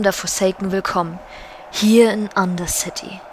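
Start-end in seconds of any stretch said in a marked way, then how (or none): 1.7-3.2 breathy whispered welcome; whispered welcome to Undercity. Acted. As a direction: drop to a whisper on the place name. Sylvanas greets guests, drops voice.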